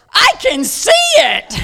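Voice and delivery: high, loud shout of amazement; excited shout. Retold or imitated. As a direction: yell it out, astonished. Husband sees the leg grow.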